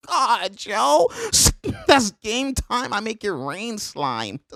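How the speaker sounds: high, drawn-out hype; awestruck celebration. Real, not acted. Reacting to the game-winning shot, high awestruck hype. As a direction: stretch each word out up high, blown away.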